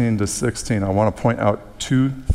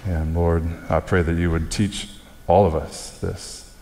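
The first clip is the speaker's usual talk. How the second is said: subdued, even public prayer; closing prayer; 2 semitones lower than usual. Real, not acted. Preacher praying for graduates and congregation, subdued prayer.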